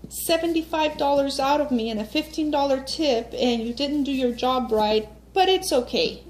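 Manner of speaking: sarcastic singsong reply, pitched high; fake-sweet "it's okay", dripping with irony; mock forgiving. Customer mocking the reply the stylist expected, sarcastic and high. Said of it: "if she expected me to say".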